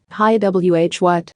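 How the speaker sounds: jumpy, stammering surprise; startled yelp. Acted. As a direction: caught off guard, blurting out. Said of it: "Index jumped like a surprised cat".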